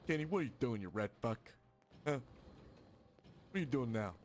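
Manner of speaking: loud, exasperated character voice; acted telling-off, punched up at the start; a rapper. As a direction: scold in a put-on voice, loud. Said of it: "I can hear you saying that as a rapper".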